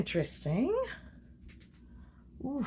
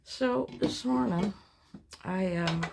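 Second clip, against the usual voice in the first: talking around a paintbrush; paintbrush in mouth; 4 dB louder than usual. Real, not acted. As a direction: talk with a brush held in the teeth. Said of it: "I got a paintbrush in my mouth".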